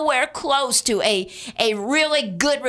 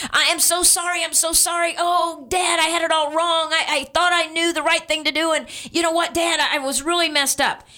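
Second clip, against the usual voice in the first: tearful pleading; 5 semitones higher, faster than usual. Retold or imitated. Son begging father's forgiveness.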